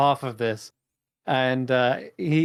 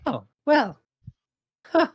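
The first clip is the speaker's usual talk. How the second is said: suddenly humbled. Acted. Goblin playwright hears his plays are famous, humbled. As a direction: go from taken aback to mildly bashful. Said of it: "His demeanor suddenly kind of, like, shifts from quite angry and aggressive to".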